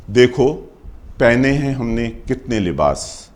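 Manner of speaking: firm, projected opening line of verse; poem opening. Acted. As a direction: call for attention, pause, then declaim.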